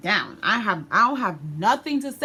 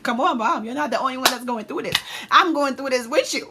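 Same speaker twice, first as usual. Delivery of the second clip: mock pleading; 6 semitones higher, 6 dB louder than usual. Pleading with crying mom, acted out.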